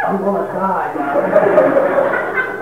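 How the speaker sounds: hammed-up plea of a dying man; patient hamming up to doctor, whining; mock dying whine. Dramatic sick patient.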